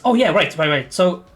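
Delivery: lightly voiced eager Abby. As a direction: rush to explain, excited. GM voicing excited Abby.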